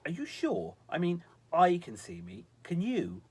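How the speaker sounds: high, baffled questioning; confused. A narrator's reading. Visitor checking whether the girl really sees him, utterly confused. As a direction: press for an answer in utter bafflement. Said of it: "The visitor seemed utterly confused".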